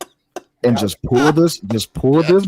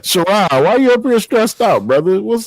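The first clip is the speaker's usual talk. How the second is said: helium voice; 9 semitones higher, 3 dB louder than usual. Pretend. Host keeps squeaky voice.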